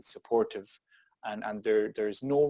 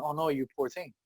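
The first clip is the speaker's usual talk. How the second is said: mock sympathy; 2 semitones higher, 4 dB quieter than usual. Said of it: "I'm standing there going".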